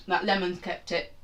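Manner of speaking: coughing through a bite; choking on food mid-sentence. Real, not acted. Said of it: "I'm choking on chicken".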